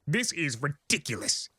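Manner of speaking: high exasperated outcry; exasperated high outburst; mock yell. A narrator's reading. Discord complaining about the form, high exasperated. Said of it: "yelled Discord".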